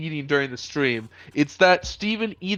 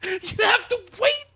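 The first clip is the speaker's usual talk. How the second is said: mock crying. Mock despair over soup.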